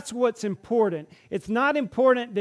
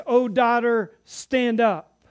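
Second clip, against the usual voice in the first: raised, tender call to rise; 4 semitones higher, 6 dB louder, slower than usual. Acted. Jesus calls the healed woman to stand, raised voice. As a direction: lift her up with a loud call.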